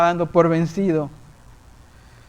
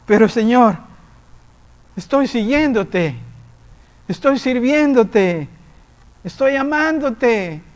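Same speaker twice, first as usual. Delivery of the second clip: slow, rising higher with each plea; a believer protesting to the Lord, slow rising plea; pleading reply; 5 semitones higher, slower than usual. Retold or imitated. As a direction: plead with the Lord, climbing slowly. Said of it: "le contesté".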